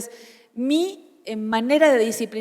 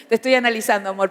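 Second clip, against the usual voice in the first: laughing; faster than usual. Real, not acted. Laughs while teasing her husband.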